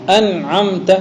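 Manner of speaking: "انعمت" recited with the noon clearly sounded; wasl reading demo. Shown as a demonstration. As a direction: pronounce the noon distinctly in "انعمت". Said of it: "دیکھو آپ وصل سے پڑھ رہے ہیں لیکن نون پڑھ رہے ہیں". ("انعمت" میں نون واضح ادا کریں)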